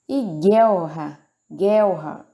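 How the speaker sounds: "guerra" slowed, the double R pulled hard in the throat. Shown as a demonstration. Teacher showing learners how the R pulls, slow and emphatic. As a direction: drag out the R in "guerra". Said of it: "o R dá uma puxada".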